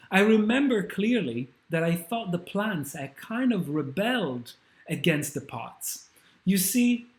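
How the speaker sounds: a witness searching for words for something strange; witness recalling. Acted. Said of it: "a witness to the aftermath ... explain what they saw".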